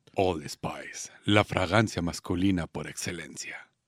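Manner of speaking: very deep, very soft, hushed, fake seductive murmur. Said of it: "vas a decir con tu voz sexy".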